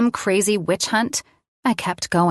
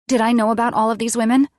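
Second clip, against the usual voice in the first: accusing; 5 semitones higher, 3 dB louder, much faster than usual. Acted. Lainey's accusing question.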